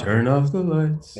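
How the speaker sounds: slow soul-crooner impression. Co-host setting a mock romantic mood, in a soul singer's voice. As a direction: draw it out like a seductive love song. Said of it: "I put on my Barry White voice".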